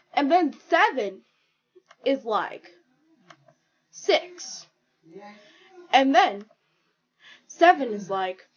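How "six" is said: breathy whisper. Acted. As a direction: whisper the name. Seven voiced whispering.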